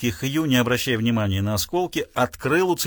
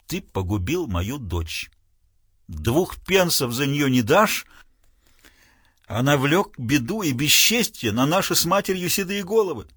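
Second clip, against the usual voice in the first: grim father. Acted. Father accuses Hugh.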